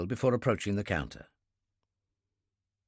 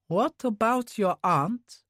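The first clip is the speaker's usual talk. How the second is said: higher, slow pointed question; probing Yuri; 9 semitones higher, slower than usual. Acted. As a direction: press him about his aunt. Yuri on phone with Kurbsky.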